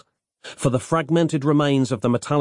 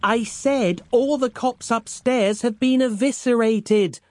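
shouting back; 12 semitones higher, slower than usual. Acted. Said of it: "Roz shouted back".

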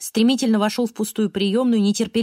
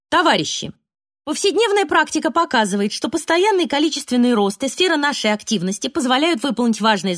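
formal speech; 3 semitones higher than usual. Acted. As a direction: read the report like a party official. Speaker reads officialese.

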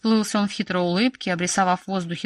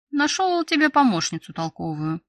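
higher-pitched, proud announcement; 7 semitones higher than usual. A narrator's reading. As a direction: announce it with some pride. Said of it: "не без гордости проговорил он". (не без гордости)

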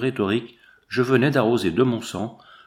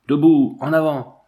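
loud, higher command; shouted order; 4 semitones higher, 7 dB louder than usual. A narrator's reading. Lieutenant ordering the men up after the blast, shouted. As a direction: bark them back on their feet. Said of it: "la voix du lieutenant Barta".

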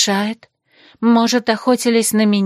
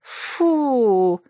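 a mild higher "фу" of disgust; disgusted hiss; 4 semitones higher than usual. Acted. Friends react to a dark-mage bride, mild disgust. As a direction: scoff like jealous girls. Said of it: "зашипели мои подруги".

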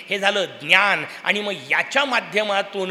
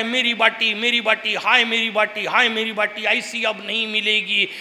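mock wailing. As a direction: wail over the pot, half-play. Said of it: "जोराजोरात रडताय".

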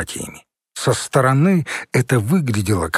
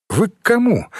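higher, tinny, as if from a speaker grille; intercom voice; 9 semitones higher than usual. Acted. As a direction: friendly voice through a door intercom. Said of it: "раздался дружелюбный голос из решётки динамика".

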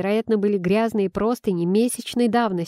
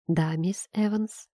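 slow unvoiced whisper; hushed, drawn-out whisper; 4 dB quieter, slower than usual. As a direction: breathe it out slowly, no voice. A hushed reply to teacher.

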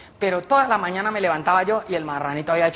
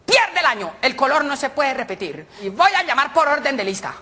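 higher, measured classroom instructions; schoolteacher; 3 semitones higher than usual. Acted. Teacher assigns colours and threatens to fail pupils, schoolteacher. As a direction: lay down the rule like a strict teacher. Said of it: "La profesora el otro día".

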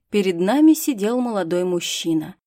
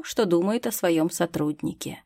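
ordinary delivery

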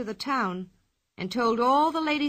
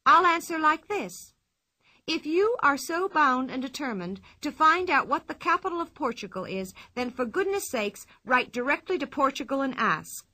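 lightly voiced bright girl, higher; a cheeky girl explaining, a touch higher; lively Pippi; 4 semitones higher than usual.

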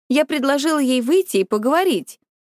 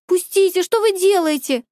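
shrieking; 7 semitones higher than usual. Acted. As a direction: shriek while held by the guard. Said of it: "и я завизжала".

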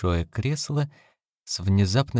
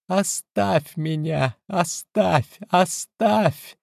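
slow then rising higher, more desperate; frightened pleading; 10 semitones higher, much slower than usual. A narrator's reading. Wife begs her husband to leave her, building in panic. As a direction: push him away, each cry more frantic.

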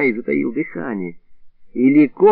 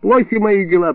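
moaning; 8 semitones higher than usual. Acted. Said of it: "простонал Илларион".

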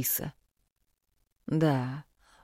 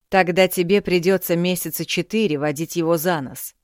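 scheming father; 3 semitones higher, 5 dB louder than usual. Acted. Father plotting.

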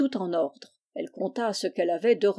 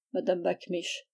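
plain reading voice

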